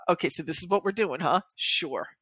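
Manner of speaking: half-hearted, grudging affirmation; sarcastic self-talk. Acted. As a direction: go along with it, unconvinced. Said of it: "like, sarcastic positive self-talk".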